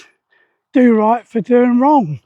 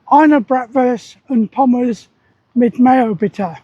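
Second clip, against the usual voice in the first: slow, careful rehearsal of "Eine Bratwurst und Pommes mit Mayo, bitte"; practicing a German order word by word; slower than usual. Shown as a demonstration. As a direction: sound out each German word slowly, like drilling a phrase. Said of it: "all night I'm practicing to say".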